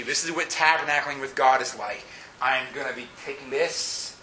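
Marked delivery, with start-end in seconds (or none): 2.4-4.1 whispered comfort. Acted. God's comfort voiced softly.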